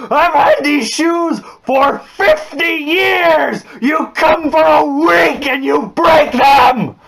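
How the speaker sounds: screaming at the top of his lungs, high and slow; a furious dad yelling over ripped sandals; furious shout. Retold or imitated. Dad screaming at his kid in the street, furious shout. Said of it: "this is what he yells".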